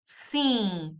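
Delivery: "sim" like English "sing" with the final G left off; nasal, no G. Shown as a demonstration. Teacher comparing yes to sing, long nasal "sim". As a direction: hold "sim" in the nose without closing it. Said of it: "without the G in the end".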